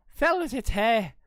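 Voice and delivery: poorly attempted Irish accent. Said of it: "I can't do, like, a proper Irish".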